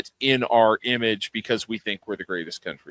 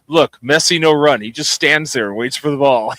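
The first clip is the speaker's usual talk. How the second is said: louder, lightly imitated irritated Frenchman; pissed French accent; 6 dB louder than usual. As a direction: mimic an annoyed French bus driver's accent. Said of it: "He was fucking pissed".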